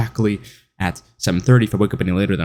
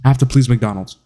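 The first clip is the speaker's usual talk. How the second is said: mock anxious worker; 2 semitones higher, faster than usual. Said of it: "you're just here like".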